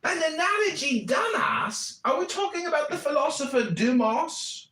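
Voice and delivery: sneering shout, pitch jumps up on dumbass; mocking retort. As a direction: dumbass yelled up high. Mocking a clip in a rant.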